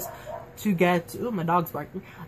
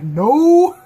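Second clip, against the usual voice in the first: much higher and louder no through a laugh; laughing shout; 7 semitones higher, 9 dB louder than usual. Retold or imitated. A fan shouting at the screen during the box scene, laughing. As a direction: blurt it out, half-laughing in protest. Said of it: "in the back of my head, I'm like".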